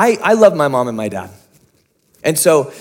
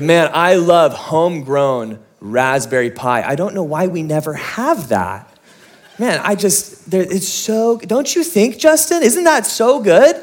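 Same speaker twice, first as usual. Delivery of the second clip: brother's teasing. Retold or imitated. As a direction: rub it in, pitch rising with every jab.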